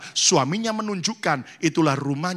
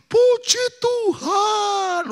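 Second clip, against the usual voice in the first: drawn-out, much higher, loud cry of praise; joyful praise; 5 dB louder, much slower than usual. Retold or imitated. Newly wed woman phoning pastor, ecstatic drawn-out praise. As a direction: stretch it out high with overflowing joy. Joyful church member on phone.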